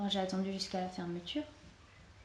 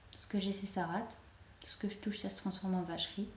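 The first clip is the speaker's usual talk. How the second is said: quiet, subdued, fading near whisper; resigned lament; 6 dB quieter than usual. Acted. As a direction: lament your bad luck softly. Lamenting her endless bad luck.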